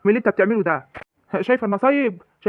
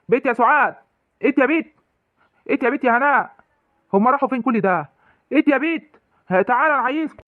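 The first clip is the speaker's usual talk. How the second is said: calling out; 3 semitones higher than usual. Acted. Father shouts for daughters through house.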